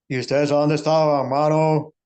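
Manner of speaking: loud demanding question; scolding. Retold or imitated. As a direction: call them out for being late. Director scolds latecomers.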